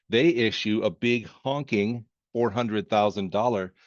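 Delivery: slow, leaning on big honking; stress big honking. Shown as a demonstration. Teacher mock-solemnly stresses the amount, slow and playful. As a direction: drag out a big honking for comic weight. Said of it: "that's the technical accounting term".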